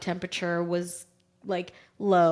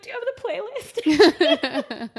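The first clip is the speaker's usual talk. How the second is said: slow, higher and louder plea; urgent question; 11 semitones higher, 8 dB louder, slower than usual. Retold or imitated. Mother asking her husband about the playlist, urgently. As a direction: stretch it out, all urgency.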